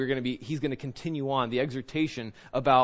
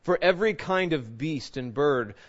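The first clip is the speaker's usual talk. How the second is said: measured, declaiming Bible reading; formal scripture reading to a congregation. Acted. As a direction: read the passage with weight. Reads scripture aloud.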